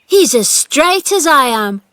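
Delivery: high, loud joyful call; excited cry. A narrator's reading. Dickon telling the gardener, excitedly. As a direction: cry it out with delight. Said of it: "cried Dickon".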